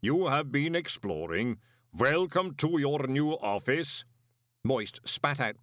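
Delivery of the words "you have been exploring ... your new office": slow, measured clay giant; lightly voiced golem; booming golem. A narrator's reading. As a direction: welcome him with heavy calm. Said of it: "boomed the voice of Mister Pump".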